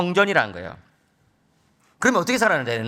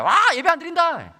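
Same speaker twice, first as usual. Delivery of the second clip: put-on high, excited children's cheer; mock kids cheering; 9 semitones higher than usual. Children cheering that there is no family worship, with a high excited squeal.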